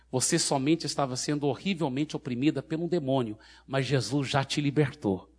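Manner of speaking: calm, even explanation without force; gentle reassurance. Retold or imitated. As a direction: reassure her calmly that it is over. Same words, now reassuring the freed woman.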